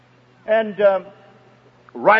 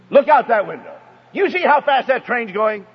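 scolding mock yell, pitched up and louder; retold scream; 4 semitones higher, 3 dB louder than usual. Mother to her little boy on the train, retold scream. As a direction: imitate a woman yelling at a child. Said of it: "She screamed at him again".

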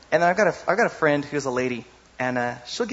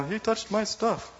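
put-on whiny kid brother; 8 semitones higher, slower than usual. Little brother whining voiced.

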